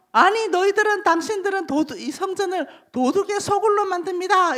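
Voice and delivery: denouncing prophet. Acted. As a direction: accuse the crowd as a stern prophet. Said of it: "이 사람들 보고". (군중을 꾸짖는 예언자처럼 높고 힘 있게)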